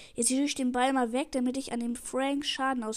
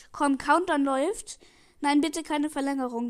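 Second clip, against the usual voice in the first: urgent pleading; 5 dB louder than usual. Real, not acted. Pleading as the clock runs down.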